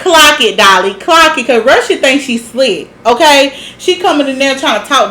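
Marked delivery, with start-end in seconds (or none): 0.0-1.5 higher, louder hype-up; egging someone on. Retold or imitated. Host cheering on Dolly for calling out Russian, egging her on.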